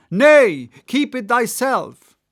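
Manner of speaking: high, loud prophetic cry; cried out. A narrator's reading. Gabriel crying to Ahab, high and loud. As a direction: cry it out like a madman. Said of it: "cried Gabriel to Ahab".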